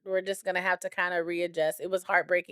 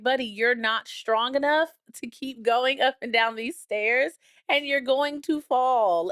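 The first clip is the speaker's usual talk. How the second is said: mock warning; 5 semitones higher than usual. Owner cautioning the unsteady old dog on stairs, mock warning. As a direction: gently scold with rising emphasis.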